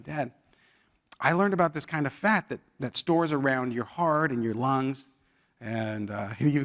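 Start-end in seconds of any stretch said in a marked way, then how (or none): 0.0-5.1 a softer, understated imitation of a worried son; emotional child, retold. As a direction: gently imitate a child holding in feeling. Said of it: "he was really feeling emotional".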